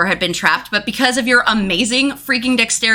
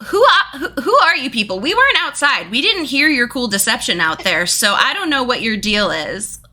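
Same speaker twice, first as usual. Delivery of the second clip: put-on New York accent; 3 semitones higher than usual. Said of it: "I couldn't do the New York accent anymore".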